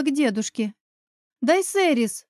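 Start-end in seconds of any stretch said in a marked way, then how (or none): 1.4-2.3 a high call after her. A narrator's reading. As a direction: call her name as she runs off. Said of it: "оклик мамы". (окрик вслед, высоко)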